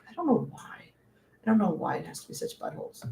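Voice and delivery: hushed grumbling whisper. Real, not acted. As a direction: whisper the complaint under your breath. Muttered complaint about Warner Brothers.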